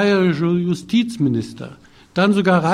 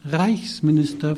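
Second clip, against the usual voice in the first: a polite smiling correction stressing Reichsminister. Acted. Brigitte corrects the shop owner's form of address, smiling. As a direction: gently insist on the full title Reichsminister. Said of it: "verbesserte Brigitte sie mit einem Lächeln".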